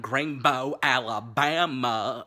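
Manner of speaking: loud, slow drawn-out place name; loud mock announcement; movie quote shout. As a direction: boom it like a movie line. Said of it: "is said".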